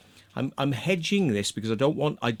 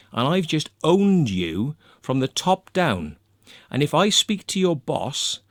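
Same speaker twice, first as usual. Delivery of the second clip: angry telling-off. Retold or imitated. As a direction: lay into him, menacing and contemptuous. Retold phone threat to hacker.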